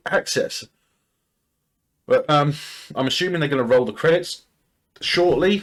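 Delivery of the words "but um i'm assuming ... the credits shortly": interrupted by a hiccup. Real, not acted. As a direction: hiccup jolts the last word. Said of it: "Sorry, I'm hiccuping".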